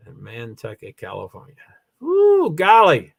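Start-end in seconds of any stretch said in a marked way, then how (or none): 2.0-3.1 drawn-out loud ooh golly; slow amazed exclamation; surprised. Real, not acted. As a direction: gasp at the coincidence. Reacting to a similar name.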